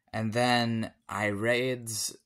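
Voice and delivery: a little tipsy, slurring. Real, not acted. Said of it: "I'm getting a bit drunk".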